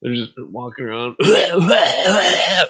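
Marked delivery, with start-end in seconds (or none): 1.2-2.7 laughing hard. Real, not acted. Laughing fit.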